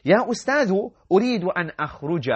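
high, eager student's plea to the teacher; student pleading. Acted. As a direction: call out like a boy asking to leave.

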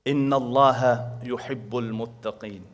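rapid recited Arabic verse, run together; Quran recitation. Acted. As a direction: rattle off the verse in one breath.

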